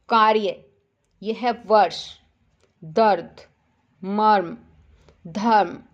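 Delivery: कार्य, वर्ष, दर्द, मर्म, धर्म each with र joined to the next consonant; model half-R pronunciation. Shown as a demonstration. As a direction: say each word singly with a half र. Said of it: "इस तरह से आपको बोलना है". (हर शब्द में आधा र साफ़ बोलें)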